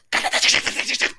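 imitated rattle of rocks hitting metal; voiceless rat-a-tat of rocks in a fan; rattling rock noise. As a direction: make a rapid clattering noise with your mouth. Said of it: "rock hitting metal".

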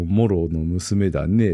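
put-on very slow, drawn-out old boar god; Okkotonushi voice. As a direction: stretch each word like an ancient god. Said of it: "っていうのをずっと言ってますね".

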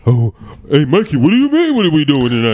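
generic man voice, as women mimic it; mocking imitation of men. Woman imitating men to make them all sound the same, mocking man voice. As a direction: swing the pitch in a mock guy impression. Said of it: "they make us all sound the same".

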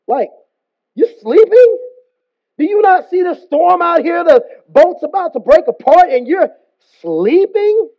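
can't believe he's asleep, halting then urgent; incredulous confrontation. Acted. Captain to sleeping Jonah as boat breaks, incredulous.

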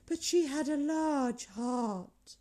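slow, solemn spirit voice; ghostly voice. A narrator's reading. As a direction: speak it slowly like a grave spirit. Ghost speaking in story.

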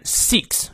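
"seeks" with a drawn-out ee; long ee. Shown as a demonstration. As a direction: hold the ee in "seeks" long and full. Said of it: "长一念到位".

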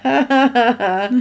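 mock staccato cackle; put-on, evenly beaten laughter; imitated laugh. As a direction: act out a villain's ha-ha laugh. Imitating a film villain's laugh.

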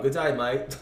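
put-on Australian greeting; Australian accent. Shown as a demonstration. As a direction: casually show off an Australian accent. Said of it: "I could do Australian".

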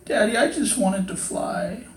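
high, slow, tearful little voice; imitated crying child. Small son to Daddy after a tantrum, imitated crying. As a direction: plead softly like a sobbing small boy. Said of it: "he's crying. And he's like".

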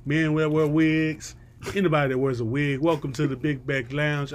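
showman announcer intro; ringmaster. Acted. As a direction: roll it out like a circus ringmaster. Podcast host's circus-style opening.

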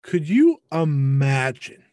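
slow, stretched "Could you imagine"; drawn-out disbelief. Real, not acted. Repeats it slowly for emphasis.

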